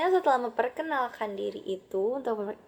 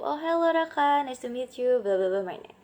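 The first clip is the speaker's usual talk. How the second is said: hello Raka raised high and louder; Denny's cheerful reply; 3 semitones higher, 4 dB louder than usual. Acted. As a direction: greet Raka warmly and gladly. (Denny menjawab dengan ceria)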